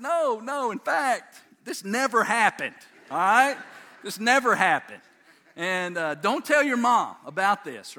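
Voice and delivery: loud, emphatic dad orders; firm warning. Retold or imitated. Dad swearing son to secrecy from Mom, acted loud insistence.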